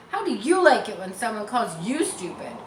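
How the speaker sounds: loud, sharp scold. Acted. Mary scolding Harry, loud angry rebuke. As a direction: tell him off. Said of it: "she scolded".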